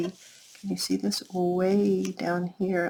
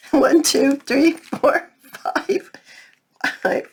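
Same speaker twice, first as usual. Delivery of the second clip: playful count; 8 semitones higher, 4 dB louder, slower than usual. Real, not acted. Counts the stamps for the kids.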